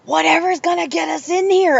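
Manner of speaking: high, lightly put-on voice of a friend faking British. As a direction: slip into a half-hearted fake British lilt. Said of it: "She's like".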